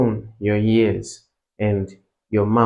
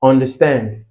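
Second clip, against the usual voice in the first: "understand" with weight on UN; teacher's careful "understand", first syllable stressed; 2 semitones higher, 3 dB louder than usual. Shown as a demonstration. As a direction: lean on the opening syllable of "understand". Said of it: "you also have it on on".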